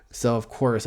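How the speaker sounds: ordinary delivery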